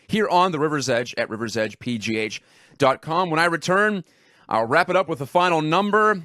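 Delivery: upbeat host read, lifted at each phrase; radio break tease. Real, not acted. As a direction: sell what's coming after the break.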